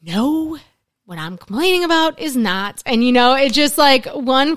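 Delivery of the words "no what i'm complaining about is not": sighing protest. Retold or imitated. Client objecting to her counselor's hula hoop question, mock sighing protest. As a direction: imitate a client's exasperated, dramatic denial. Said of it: "like, sigh and be like".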